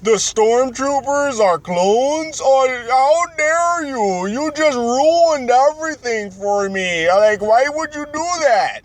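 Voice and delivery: high, slow, mock-outraged whine; hammed-up betrayed fan. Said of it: "all of a sudden everybody's like".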